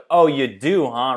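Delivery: mock antagonistic jab. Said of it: "antagonistic attitude".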